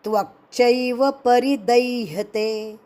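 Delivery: measured Sanskrit chanting of the shloka; verse recitation. Shown as a demonstration. Teacher recites the Gita verse for students, chanting.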